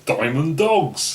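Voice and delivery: lazy drawl on the album title; slow drawl. Pretend. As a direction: drag the name out lazily, savouring it. Drawled band-name echo.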